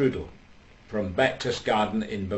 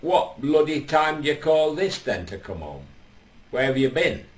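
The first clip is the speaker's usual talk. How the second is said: booming voice; 4 semitones higher than usual. Retold or imitated. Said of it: "booming, booming voice says".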